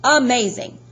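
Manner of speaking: put-on British-accented gatekeeper's exclamation; strange British accent. A narrator's reading. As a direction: praise him in an odd British accent. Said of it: "He had a strange accent. British, maybe".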